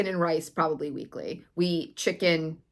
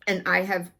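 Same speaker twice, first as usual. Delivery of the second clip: choking on something mid-sentence; throat caught, choking a little. Real, not acted. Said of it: "sorry, I'm choking on something".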